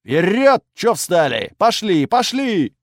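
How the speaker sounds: high, loud angry bark. A narrator's reading. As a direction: bark at the slow recruits. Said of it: "скривил губы и рявкнул".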